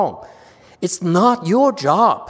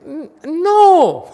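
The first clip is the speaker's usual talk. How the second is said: much higher and louder burst of no; emphatic no; 12 semitones higher, 8 dB louder than usual. Acted. Master to disciples, a playful loud refusal. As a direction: cut the idea dead with a mock outburst.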